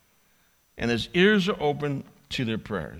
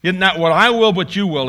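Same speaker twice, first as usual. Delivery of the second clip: fervent prayer; 4 semitones higher, 8 dB louder than usual. Acted. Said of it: "He says".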